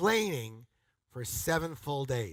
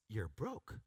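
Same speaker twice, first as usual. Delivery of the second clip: mock psychic; 6 semitones lower, 11 dB quieter than usual. Shown as a demonstration. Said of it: "look up to the heavens and go".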